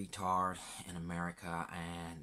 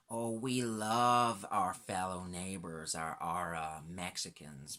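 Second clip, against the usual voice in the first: mock fake friendliness; 4 dB louder, slower than usual. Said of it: "they're all smiles and sunshine".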